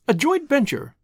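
high-pitched, pleased find; pleased recollection. A narrator's reading. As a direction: pitch it up as the term comes back. Suddenly recalls the term.

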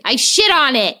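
imitating a kid whose "spit" comes out as "shit"; toddler mispronunciation. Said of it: "But he's like".

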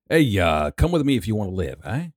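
casual Canadian accent with an added hey and eh; mock Canadian accent. Shown as a demonstration. Asked for an action-hero read, he does a Canadian accent. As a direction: tack on a Canadian eh at the end. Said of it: "That's my accent".

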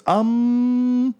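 high-pitched, hesitant talking shield. Acted. Talking shield weighing up a beating, high and hesitant. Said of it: "The shield goes".

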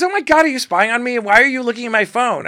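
high, loud indignant accusation; accusing outrage. Retold or imitated. Caught looking at her phone, a high loud accusation. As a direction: snap back at being caught out.

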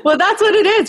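laughing through the words; amused, laughing reply. Real, not acted. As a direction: let a real laugh carry the line. Laughing at host's remark.

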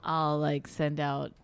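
trailing off into a quiet mumble; mumbling. Real, not acted. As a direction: mumble it, voice fading away. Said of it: "Talk up".

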